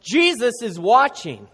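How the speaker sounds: lightly acted voice out of the dark; mysterious voice. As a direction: draw it out like an eerie call. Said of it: "he hears this voice again".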